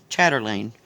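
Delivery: chatterlane with an extra r in the middle; mispronounced. Real, not acted. Stitcher naming a craft from memory, mispronounced chatterlane as "chatter-lane". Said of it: "After I said it wrong three times".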